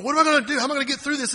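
high, loud panicked cry; mock panic. Pastor imitating a panicked believer, high and loud. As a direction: wail it like someone overwhelmed. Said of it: "We get, get going".

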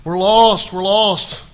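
loud, desperate wailing of a man in despair; panicking. Retold or imitated. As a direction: cry out like all hope is gone. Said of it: "he just went to pieces".

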